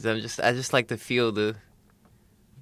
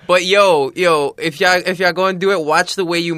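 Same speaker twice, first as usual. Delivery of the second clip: higher, louder playful warning; excited warning; 4 semitones higher, 5 dB louder than usual. Real, not acted. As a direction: call out to the listeners. Joking warning to listeners.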